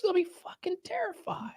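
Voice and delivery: breathy whisper. Pretend. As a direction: whisper the punchline. Whispered punchline.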